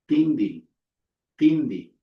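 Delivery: tindi with a voiced d after n; pronunciation demo. Shown as a demonstration. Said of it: "which is pronounced".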